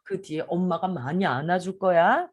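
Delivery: gentle promise. Shown as a demonstration. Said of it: "그러시고".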